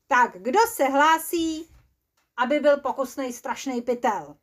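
mock-cheerful recruiter; eager volunteer call. Asks for volunteers.

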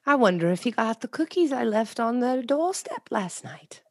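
unvoiced, breathy thinking aloud; whispered inner monologue. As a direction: whisper it like private thoughts. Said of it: "constant inner monologue".

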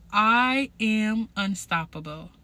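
slow, deliberate self-affirmation; motivational affirmation. Shown as a demonstration. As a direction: say it like you mean it. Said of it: "So today I want you to tell yourself".

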